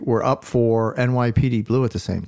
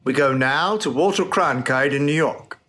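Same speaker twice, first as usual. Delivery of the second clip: news announcer; 3 semitones higher than usual. Acted. Mock breaking news bulletin.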